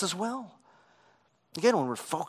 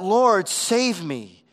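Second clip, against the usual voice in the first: cried out; 5 semitones higher, 7 dB louder, much slower than usual. A narrator's reading. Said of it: "he cried out".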